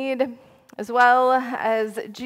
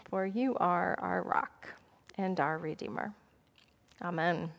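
prayer. Acted. Leads prayer before the sermon.

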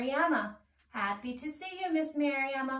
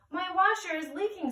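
Ant voice; 7 semitones higher, 3 dB louder, faster than usual. Acted.

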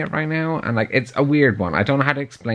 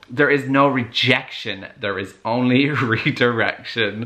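laughing quote. Retold or imitated. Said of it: "the whole".

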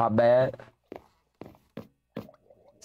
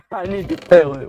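higher, louder mock of the line; mocking imitation; 6 semitones higher, 8 dB louder than usual. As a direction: parody the friend's delivery. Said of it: "Why you say it like that?".

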